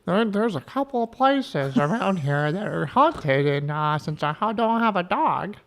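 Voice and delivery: slow, lightly voiced mom impression; imitating mom. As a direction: copy mom's way of talking. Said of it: "You sound just like her".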